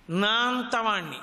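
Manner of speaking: slow, weighty నా అంతవాణ్ణి with a falling end; slow boast. Shown as a demonstration. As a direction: draw out అంతవాణ్ణి as if savouring self-importance. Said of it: "అన్నాడంటే ఏదో ఒక విభూతి". (నెమ్మదిగా గర్వంగా నా అంతవాణ్ణి)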